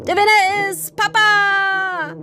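high, loud, slow victory cry; a dad gloating over beating his daughter; triumphant shout. Acted. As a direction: crow over winning. Dad wins race, arms raised.

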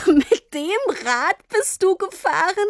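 put-on high, astonished child's question; disbelieving squeal at the bike. Girl amazed her papa rode the postal bike, surprised.

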